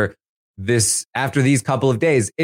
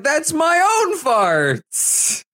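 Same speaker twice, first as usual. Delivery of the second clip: high, slowed mock Cirie voice; hammed-up Cirie defending her own bed; mock Cirie comeback; 13 semitones higher, slower than usual. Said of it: "And Cirie's like".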